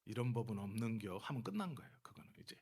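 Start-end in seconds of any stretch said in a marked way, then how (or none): 0.0-1.2 lightly voiced Chungcheong local; Chungcheong dialect. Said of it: "이게 충청도 사람입니다".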